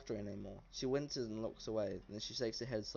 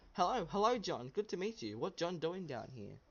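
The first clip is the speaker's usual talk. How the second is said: goblin voice; 6 semitones higher than usual. Acted. Goblin Gary greets the stranger in a high squeaky shout. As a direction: squeal it like an excited little goblin.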